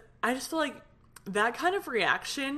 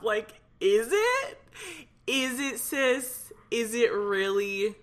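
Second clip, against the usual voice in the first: sarcastic; 2 semitones higher, slower than usual. Real, not acted. Sarcastic comeback to the haters.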